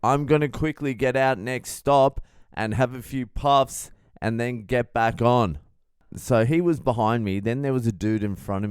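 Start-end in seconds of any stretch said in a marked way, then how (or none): 0.0-5.6 a hint of the loud stranger, higher; lightly voiced booming stranger; loud guy. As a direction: announce it a bit too loud. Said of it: "He's like".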